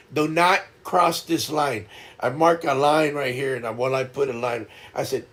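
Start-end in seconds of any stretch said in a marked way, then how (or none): 0.1-1.9 slow, measured mock command; retold stern order. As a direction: spell out the rule word by word. Lays down a rule, retold.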